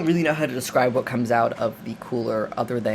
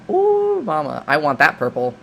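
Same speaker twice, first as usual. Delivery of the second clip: a hint of a lecherous guy, high squeal on ooh; lightly voiced sleazy man catcalling; mock leer at a woman; leering come-on; 3 semitones higher, 4 dB louder than usual. Goldie ogling Elizabeth, voiced.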